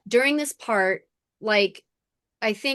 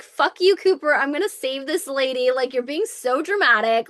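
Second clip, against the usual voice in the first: louder, higher start, easing off; mock defiant outburst; 4 semitones higher, 3 dB louder than usual. Lucy telling Cooper she will save this lady, mock exasperation. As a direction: act out a mildly exasperated brush-off.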